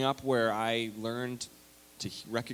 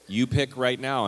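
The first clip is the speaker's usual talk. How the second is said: fear-based preacher; 5 dB louder than usual. Retold or imitated. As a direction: thunder it at the kids like a camp preacher. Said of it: "it's like".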